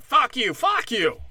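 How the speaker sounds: high, loud heated outburst; amped-up shouting. Acted. Imagining both hosts amped up on his show, mock heated shouting. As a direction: play at a worked-up shouting match. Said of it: "the two of us amped up".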